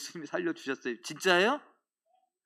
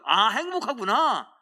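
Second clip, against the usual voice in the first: mock fooled brain; 4 semitones higher, 6 dB louder, slower than usual. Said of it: "착각하는 거예요".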